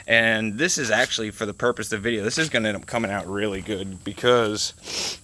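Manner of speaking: talking through a runny nose; sniffly, stuffed-up speech; sniffling. Real, not acted. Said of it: "excuse my sniffling".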